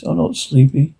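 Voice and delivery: softly voiced spooky moodiness; spooky, moody. Sylvia says she is not sleepy, in a soft spooky voice. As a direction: keep it hushed, a touch spooky and moody. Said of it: "Spooky voice, a bit moody".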